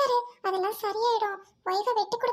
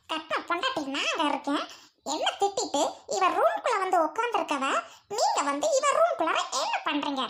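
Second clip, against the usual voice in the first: sneering scold with bitter laughs; jealous wife scolding her husband for being in the room; 3 semitones lower than usual. Acted. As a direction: tear into the husband with mocking laughter.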